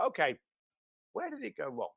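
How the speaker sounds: steady yourself and quietly ask what broke; calm and composed. Retold or imitated. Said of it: "the successful person leans in and go".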